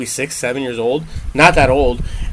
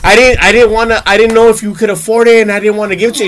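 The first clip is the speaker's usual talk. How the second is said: retold sobbing; 5 semitones higher, 4 dB louder than usual. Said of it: "just sobbing, crying".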